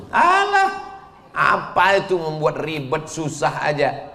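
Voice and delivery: a high, dismissive scoff; mocking scoffer. Preacher imitating someone who mocks Arabic, high scoffing. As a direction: brush it off like a scornful critic. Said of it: "orang yang mengejek bahasa Arab".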